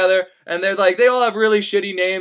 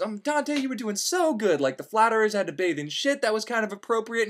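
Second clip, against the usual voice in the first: disappointed aside; 8 dB quieter than usual. Acted.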